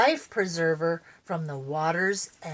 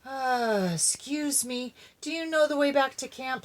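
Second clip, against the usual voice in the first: higher, nervous, fast question; timid; 5 semitones higher than usual. Acted. Dog asks the bear, timid and hurried. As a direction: ask it shyly, afraid of the bear. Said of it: "Spunky asked timidly".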